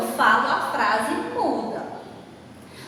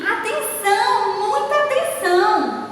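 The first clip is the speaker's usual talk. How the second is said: raised, emphatic demonstration of an exclamation; expressing emotion; 7 semitones higher than usual. Shown as a demonstration. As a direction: call for attention with feeling. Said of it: "Está expressando um sentimento, uma emoção".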